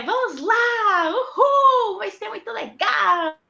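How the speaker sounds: high, loud, gushing tour-guide cheer; cheesy tour guide. Retold or imitated. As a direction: pump up a busload of tourists. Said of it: "que nem aquele povo de, de, que turístico".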